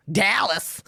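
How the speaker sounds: put-on American "Dallas"; imitated American accent. Brit mimics an American answering her, American accent. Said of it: "what part of America are you from".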